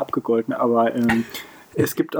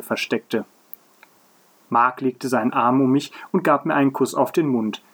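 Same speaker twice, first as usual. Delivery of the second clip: measured read-aloud storytelling; story narration. A narrator's reading. Podcaster reading a story to co-host, narrating. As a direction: read the tale out in careful phrases.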